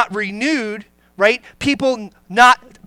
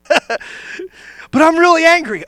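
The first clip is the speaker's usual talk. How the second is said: whiny church member; 6 semitones higher, slower than usual. Retold or imitated. Church member whining to pastor.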